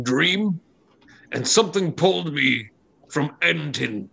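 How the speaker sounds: halting, earnest confession of a dream; hesitant giant Ock. Acted. Giant explaining his dream to the dwarves, hesitant. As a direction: start unsure, lift in pitch, then fade. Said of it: "Aw kind of steps forward".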